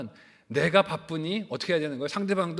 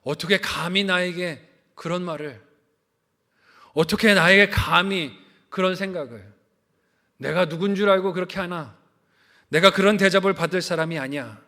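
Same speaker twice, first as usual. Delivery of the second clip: louder, offended pride rising line by line; indignant outburst; 6 dB louder than usual. Retold or imitated. 성도들에게 교만한 사람을 흉내 내며, louder indignant outburst. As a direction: act the insulted ego, louder. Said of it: "그러면서 이렇게 말하죠".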